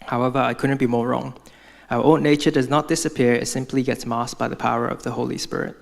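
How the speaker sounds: usual speaking voice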